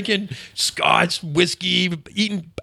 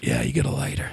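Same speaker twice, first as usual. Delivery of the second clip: lower, softer tough-guy cool; Clint Eastwood impression; 4 semitones lower, 7 dB quieter than usual. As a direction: play it cool like a lone cowboy, low and quiet. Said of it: "talking like all Clint Eastwood".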